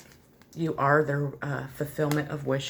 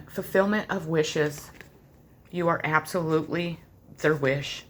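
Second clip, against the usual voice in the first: ordinary talk, nothing marked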